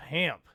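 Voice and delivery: pimp with a wide "a" vowel; drawled "pamp" for pimp. Shown as a demonstration. Telling chat who's a playa, pimp as "pamp". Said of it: "unless you can say pimp".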